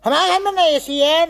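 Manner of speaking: high-pitched aggrieved complaint. Acted. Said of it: "tone नीचे करो". (ऊँचे सुर में शिकायत)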